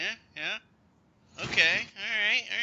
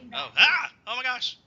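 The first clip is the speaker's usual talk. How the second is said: sudden loud high startle; surprised; 8 semitones higher, 9 dB louder than usual. Real, not acted. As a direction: caught off guard, blurt it.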